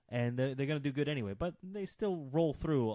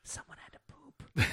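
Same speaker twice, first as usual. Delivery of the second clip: unvoiced secretive whisper. Real, not acted. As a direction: lean in and whisper it. Confiding embarrassing detail.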